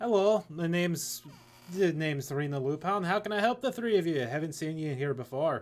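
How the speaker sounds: put-on Irish character voice. Greeting three newcomers in character, in Serena Lupin's Irish accent. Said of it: "good old Irish".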